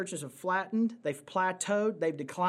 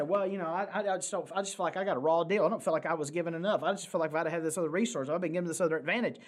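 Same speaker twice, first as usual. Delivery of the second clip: mock whiny servant; much faster than usual. Imagined complaining servant quote.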